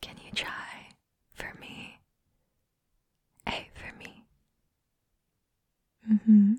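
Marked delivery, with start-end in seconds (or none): 0.0-4.2 ASMR whisper. Acted. Coaxing a shy friend to meet her eyes, whisper. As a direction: soothe them close to the ear.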